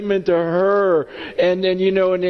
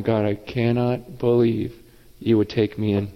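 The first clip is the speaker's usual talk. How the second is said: low, hushed amazement, lightly acted; awe; 8 semitones lower than usual. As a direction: imitate someone humbled by wonder. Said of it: "you're just in awe going".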